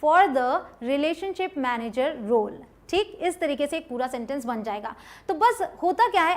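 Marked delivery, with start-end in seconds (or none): 0.0-2.6 slow, careful demo phrasing; slow, clear model line for students; slow model sentence. Shown as a demonstration. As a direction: spell it out slowly for the learner. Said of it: "पहले आप reception".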